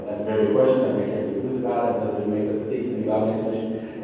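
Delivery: quick, even recital of a stock answer; rattled-off recital. Retold or imitated. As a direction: reel off the memorised line very fast. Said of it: "I wrote my own answer down".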